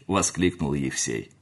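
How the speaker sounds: ordinary delivery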